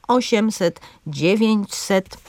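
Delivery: osiemset and dziewięćset, stress on O and DZIE; dziewięćset slowly, stress on DZIE; stress on third-last syllable. Shown as a demonstration. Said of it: "z akcentem na trzecią sylabę".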